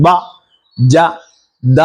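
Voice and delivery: "ബ, ജ, ദ" with firm, voiced attack; strong letters. Shown as a demonstration. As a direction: hit each of "ബ, ജ, ദ" strongly, separately. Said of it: "strong ആയിട്ട് പറയേണ്ട അക്ഷരങ്ങളെ". ("ബ, ജ, ദ" ശക്തമായി പറയുക)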